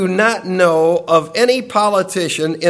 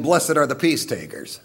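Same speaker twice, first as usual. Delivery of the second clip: God's new decree; 6 semitones lower, 5 dB quieter than usual. Retold or imitated. Preacher voicing God's reversed blessing to the congregation, low and soft. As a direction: lower and softer, a grave divine pronouncement. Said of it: "Now he's saying".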